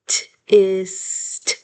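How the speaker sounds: "tist" set apart as its own part; second syllable alone. Shown as a demonstration. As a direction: sound out just "tist". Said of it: "And then".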